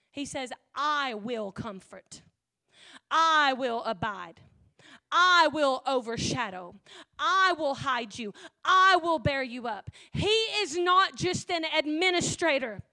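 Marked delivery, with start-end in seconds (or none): 0.7-9.9 declaring God's promise. Acted. Preacher voices God's promises.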